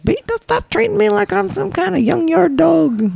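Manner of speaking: high, twangy Puerto Rican southern impression; mock a friend's Puerto Rican southern twang; indignant complaint in high Puerto Rican southern accent. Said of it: "She had a Puerto Rican southern accent".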